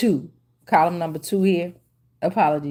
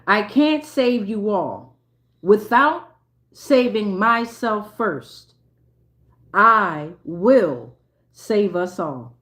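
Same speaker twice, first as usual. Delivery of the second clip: poem reading; much slower than usual. Real, not acted. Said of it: "this haiku is called".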